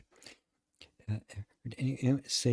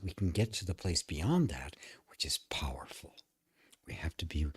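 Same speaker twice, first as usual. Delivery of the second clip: whispered; 4 semitones lower, 6 dB quieter than usual. Real, not acted. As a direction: drop to a soft whisper on the insight. Whispered point about power.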